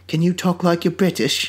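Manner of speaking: mock British prince; prince's British accent. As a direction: ask it in a put-on British accent. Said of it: "no, it's the prince. He's like".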